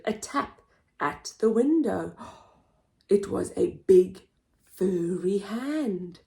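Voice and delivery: lively picture-book narration; storybook voice; reading to children. Acted. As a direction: read it with wide-eyed expression for little ones.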